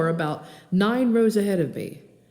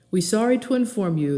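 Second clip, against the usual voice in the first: a hint of a Korean-accented captain; lightly voiced Korean pilot announcing; understated Korean accent, formal; 3 semitones higher than usual. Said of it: "in an accent slightly less thick".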